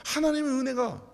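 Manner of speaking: usual speaking voice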